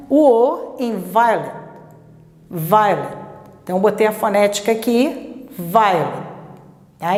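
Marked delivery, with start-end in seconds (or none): 2.5-3.2 "violent" com o O reduzido a schwa; força no "vi", engula o O de "violent"; O fraco no meio. Shown as a demonstration. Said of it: "Ele ficou fraquinho lá". 5.6-6.3 "violent" com o O quase sumido; força no "vi", reduza o resto; O fraco no meio. Shown as a demonstration. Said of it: "Ele ficou fraquinho lá".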